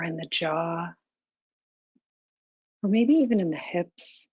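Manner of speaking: calm, even meditation guidance with long pauses; unhurried, level meditation-teacher delivery; guided meditation. Real, not acted. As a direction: guide them gently into stillness, leaving space between phrases.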